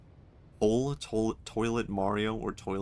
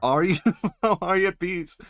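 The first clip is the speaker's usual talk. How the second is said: incredulous; 8 semitones higher, 6 dB louder than usual. Real, not acted. Mocking the game character.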